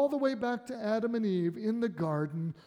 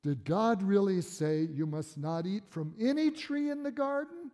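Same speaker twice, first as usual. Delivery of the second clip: twisting tempter. Acted. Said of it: "here's how he twists it".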